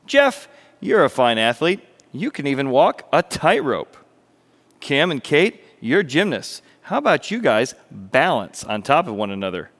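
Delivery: lightly voiced boy rallying his friends; mildly excited story-character pitch; eager young organizer. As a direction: pitch an idea to your pals, a touch excited. Milo assigns acts to friends.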